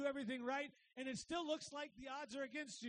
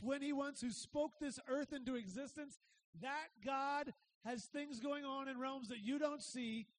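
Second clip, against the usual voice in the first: full-force preaching; 4 dB louder than usual. Acted. Preacher proclaiming God's power to the congregation, louder. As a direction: proclaim it to the back row.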